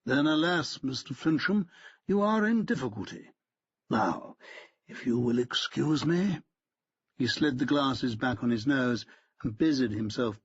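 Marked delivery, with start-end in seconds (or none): 0.1-6.4 cool, superior solicitor; stiff lawyer. A narrator's reading. Lawyer brushing off Fincham, haughty.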